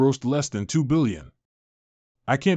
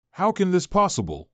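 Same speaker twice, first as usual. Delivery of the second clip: stunned disbelief; 6 semitones higher than usual. Acted. Colleague stunned star came.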